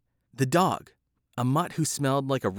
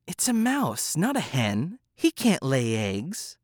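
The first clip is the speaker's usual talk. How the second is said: snarling cat; slower than usual. Acted. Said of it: "snarled the cat".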